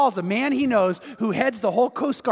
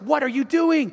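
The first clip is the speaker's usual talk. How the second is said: higher, mock-startled question; startled protest; 5 semitones higher than usual. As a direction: act out her bewildered challenge. Retold girlfriend startled at boat.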